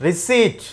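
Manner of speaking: "రిసీట్" with no P sound before the T; silent P. Shown as a demonstration. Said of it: "ఇక్కడ కూడా మనం P అనేది పలకమండి".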